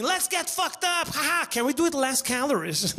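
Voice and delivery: high, chirpy party voice; mock party bro. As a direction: play a light-beer drinker cheering. Mock Bud Light drinker.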